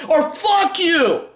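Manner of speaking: real shouted dismissal; angry outburst. Real, not acted. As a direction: hurl it at the critics, stretched out. Angry rant climaxing at critics.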